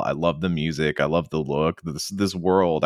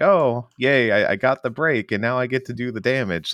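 mock gleeful player; 5 semitones higher than usual.

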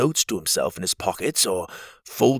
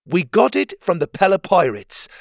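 boasting, higher and louder; proud; 8 semitones higher, 6 dB louder than usual. Acted. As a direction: puff your chest out. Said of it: "Pocket said proudly".

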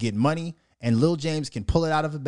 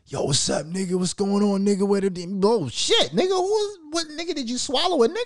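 high-pitched mock cousin voice, rising; cousin's voice climbing higher and higher; imitating cousin; 6 semitones higher than usual. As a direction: squeal it out like a goofy cousin. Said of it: "When that nigga says".

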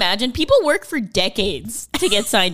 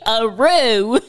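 wolf voice; 2 semitones higher, 5 dB louder than usual. Shown as a demonstration. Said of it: "Not a mine".

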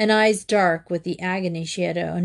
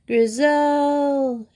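Grizel called high and ringing; calling out for help, high; cried out; 7 semitones higher than usual. A narrator's reading. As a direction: call her name out high. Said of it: "she cried".

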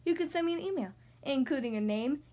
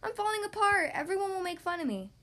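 worried skeleton; 6 semitones higher than usual. Acted. Skeleton fears teasing.

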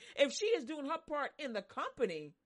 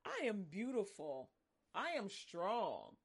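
affirmation; 3 semitones lower, 4 dB quieter, slower than usual. Shown as a demonstration. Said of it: "Start turning the tables".

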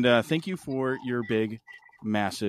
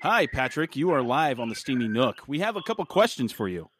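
radio voice. Acted. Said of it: "how I turned on my radio voice for Patrick".

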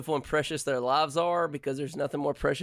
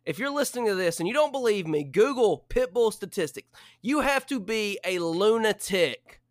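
louder, higher, hammed-up indignant tirade; mock outrage rant; 6 semitones higher, 5 dB louder than usual. Real, not acted. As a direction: preach against pit bull owners at full volume. Ranting about pit bull owners.

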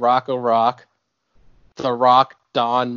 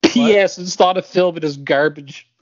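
deadpan, louder reread; matter-of-fact; 6 semitones higher, 5 dB louder than usual. Retold or imitated. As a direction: state it like plain fact. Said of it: "He says it so matter-of-factly".

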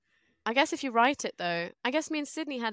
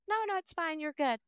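mock American reassurance; breezy American "it's fine, you're good"; American accent; 5 semitones higher than usual. Coworker mimicking Americans, light American accent. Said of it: "That was good American accent".

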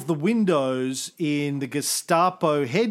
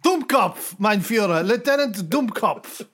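comic German officer voice; German lieutenant; 3 semitones higher than usual. Acted. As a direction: report your name to the leader. Officer gives his name.

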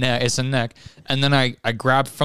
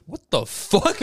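stunned mock "what the fuck", pitched up; baffled; 5 semitones higher, 3 dB quieter, slower than usual. Repair team finds the pool wrecked, baffled. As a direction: act out a baffled repair crew. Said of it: "repair team just goes".

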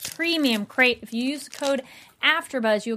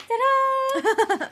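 excited; 14 semitones higher than usual. Real, not acted. Cheerful show closing.

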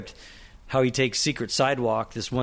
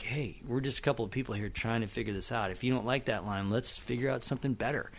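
soft, easy reassurance to an actor; quietly confiding, putting an actor at ease; softly, as if taking someone aside; reassuring director; 7 dB quieter than usual. Retold or imitated.

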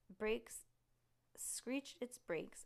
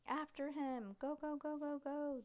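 excited yelling; 7 semitones higher than usual. A narrator's reading. Judy yells to friends to chase Bigfoot. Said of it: "Judy yelled".

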